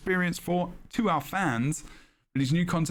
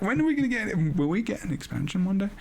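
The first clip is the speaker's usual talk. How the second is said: eager fan question; 5 semitones higher, faster than usual. Retold or imitated. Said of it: "I was like".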